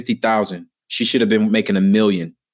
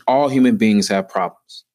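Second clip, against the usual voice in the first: ordinary talk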